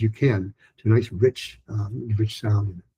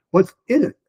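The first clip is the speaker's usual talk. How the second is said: high voice with in rising; high questioning; 9 semitones higher, 4 dB louder than usual. Shown as a demonstration. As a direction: ask it high and curious. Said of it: "four A".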